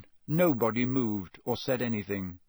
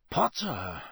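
drawn-out, lower-pitched address; slowly; 4 semitones lower than usual. A narrator's reading. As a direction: draw the name out, deliberately. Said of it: "he said slowly".

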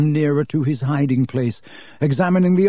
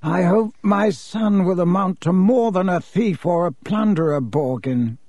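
cold; 5 semitones higher than usual. Acted. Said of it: "said Mister Malfoy coldly".

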